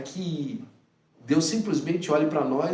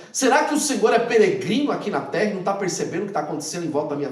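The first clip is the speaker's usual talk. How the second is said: louder, indignant reproach to God; a believer scolding God in prayer, louder and indignant; complaining prayer; 4 dB louder than usual. Retold or imitated. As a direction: demand answers from God, aggrieved. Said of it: "Como muitos de nós falam assim com Deus".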